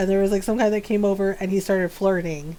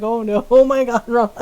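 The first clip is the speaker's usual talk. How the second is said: louder mock dismay, laughing; retold panic; 6 dB louder than usual. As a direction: replay your panic with a laugh. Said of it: "I panicked because that whole fear".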